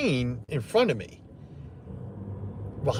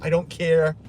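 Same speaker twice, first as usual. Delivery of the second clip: mock Madeleine showing off; 2 semitones higher, 4 dB louder than usual. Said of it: "she's gonna be like".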